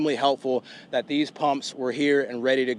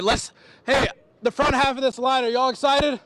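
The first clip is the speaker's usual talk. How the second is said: hyping up the crowd; 9 semitones higher than usual. Real, not acted. Reporter hyping up crowd in line.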